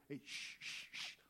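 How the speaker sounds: whispered shushing, soft; hushed denial. Acted. Peter quietly shushing the accusing crowd, whispered. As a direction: hush them, keep it secret. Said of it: "His first nice, quiet look".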